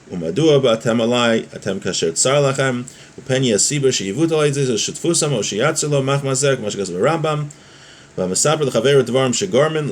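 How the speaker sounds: lilting recitation of Hebrew text; text-study reading. Real, not acted. Teacher reading a Hebrew law text to students, lilting recitation. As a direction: read the source text in a rolling, rise-and-fall lilt.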